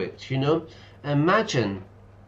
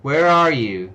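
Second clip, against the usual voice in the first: excited greeting; 3 semitones higher, 9 dB louder, slower than usual. Real, not acted. Loud greeting to a chat viewer.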